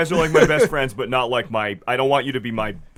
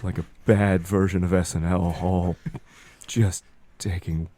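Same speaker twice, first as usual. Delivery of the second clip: halting, slightly hushed seer; lightly voiced prophet with long pauses; prophecy voice; 4 dB quieter than usual. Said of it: "Prophecy voice".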